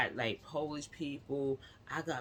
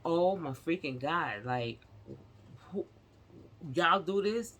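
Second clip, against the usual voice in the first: amazed customer; 4 semitones higher than usual. Retold or imitated. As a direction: play the stunned customer who can't believe it.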